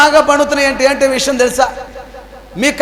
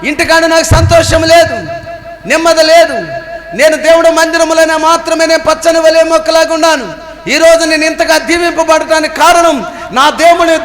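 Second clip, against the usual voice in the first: joyful proclamation; 3 semitones higher than usual. Retold or imitated. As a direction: proclaim your blessing to the whole church. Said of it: "దావీదు అంటున్నాడు".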